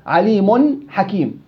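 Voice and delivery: عليم drawn out slowly as 'alimun, nun sounded before حكيم; slow nunation demo. Shown as a demonstration. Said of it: "في نون؟".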